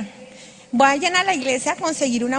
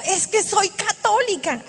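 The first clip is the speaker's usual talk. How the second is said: desperate cry; 5 semitones higher than usual. Retold or imitated. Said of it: "Cuando estoy gritando, digo".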